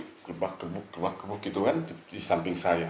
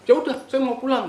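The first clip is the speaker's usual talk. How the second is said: higher, louder sharp retort; snapping; 5 dB louder than usual. Retold or imitated. Retelling how the friend snapped, a sharp high bark. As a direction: bark it back in a sudden temper. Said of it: "Oh, oh, bentak".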